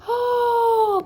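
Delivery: annoyed begging; exasperated pleading. Real, not acted. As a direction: beg it to stop, fed up. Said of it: "It's annoying me too".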